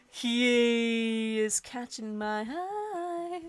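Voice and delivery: 1 dramatic reading. Acted. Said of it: "it sounds good when you say it".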